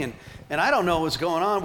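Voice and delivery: normal talking voice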